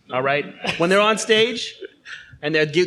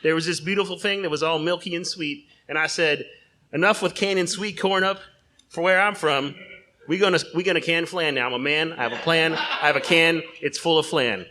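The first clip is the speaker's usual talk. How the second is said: a lightly voiced folksy salesman, hamming up the pitch; pitchman John Corn Tractor; 2 semitones higher than usual. John Corn Tractor pitching flan in a restaurant, lightly voiced huckster. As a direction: sell the canned flan like a carnival barker. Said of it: "I am John Corn Tractor".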